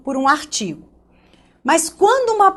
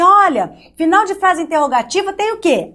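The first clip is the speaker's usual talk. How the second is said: a higher, lightly sing-song schoolteacher voice; mocking the old teacher; 5 semitones higher than usual. Teacher mimics aunt Maricleia quizzing kids, higher and sing-song. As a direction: ham up a sweet old teacher asking the class. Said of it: "Ela falava assim".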